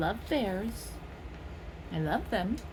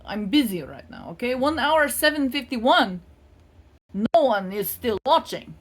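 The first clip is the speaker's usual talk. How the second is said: brushing off caller; 2 semitones higher, 5 dB louder than usual. Pretend. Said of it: "look at it and say".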